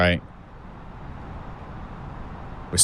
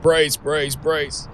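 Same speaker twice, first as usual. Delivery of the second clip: higher, urgent brace call; crew shouting brace; 7 semitones higher, much slower than usual. Retold or imitated. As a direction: imitate a cabin crew brace command. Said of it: "the cabin crew have decided we're all gonna die".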